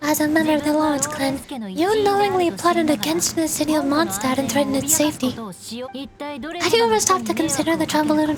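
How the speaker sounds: lightly voiced, formal and firm niece; reproachful noblewoman. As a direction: scold an elder with measured dignity. Voices the defiant niece scolding him.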